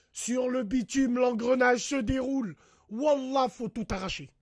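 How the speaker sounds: rally the crowd, heated; worked-up ranting; loud rant. Real, not acted. Ranting, calls for revolution.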